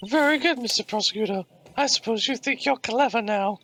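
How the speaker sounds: smug rival voice. Acted.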